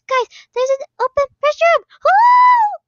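high, loud, fast call to the team; urgent shout. Real, not acted. Player shouting to teammates about the open restroom. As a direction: yell to get everyone moving.

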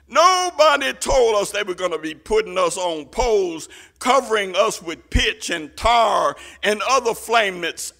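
loud, preached-out protest; aggrieved complaint. Acted. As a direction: cry out the grievance on behalf of the persecuted. Preacher voices persecuted believers' complaint.

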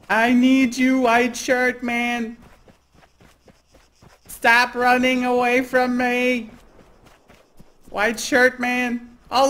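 high, loud, slow creepy killer pleading; serial killer voice. Pretend. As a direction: stalk him with a high needy killer voice. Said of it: "You sound like a serial killer".

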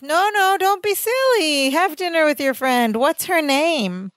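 high, bright-voiced insistence, rising well above normal; mock-casual Larry pushing too hard; eager cheerful brush-off. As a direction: play it breezy and overly agreeable in a high voice. Larry eagerly waving off the date.

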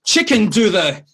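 high, halting broken English; comic high-pitched broken English with pauses. Retold or imitated. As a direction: grope for words in mock pidgin. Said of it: "I'm like".

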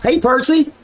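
high-pitched imitation of white-boy talk; Blue's white accent. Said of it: "Blue had the accent".

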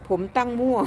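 giggly repeat, real amusement; amused, laughing. Real, not acted. Streamer repeating viewer's funny reply, laughing. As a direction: quote it on the edge of laughter. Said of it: "พี่ขำที่น้องตอบมา".

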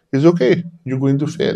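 high mock-casual teacher voice; imitating the teacher's casual doom; teacher quoted. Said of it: "He goes".

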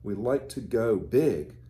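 gentle storybook reading voice; teacher reading a storybook aloud to children. Acted. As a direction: read the picture book to the little ones. Reads a picture book to children.

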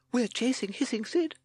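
high-pitched timid toad. A narrator's reading. Timid Toad objecting to the chase, high voice. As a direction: pipe up doubtfully. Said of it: "said timid Toad".

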